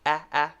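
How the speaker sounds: isolated short ah vowel, as in blander; ah given as a teacher's vowel model. Shown as a demonstration. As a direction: sound out ah, ah separately. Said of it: "short A".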